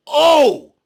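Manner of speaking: loud high shocked exclamation. Real, not acted. Seeing the brawl start, loud shocked oh. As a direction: gasp out a loud oh. Reacting to the fight.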